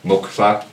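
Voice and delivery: "mukla" said the anglicised way, with a plain English L; anglicised mispronunciation. Shown as a demonstration. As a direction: say "mukla" as English ears hear it. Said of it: "we grew up saying wrong".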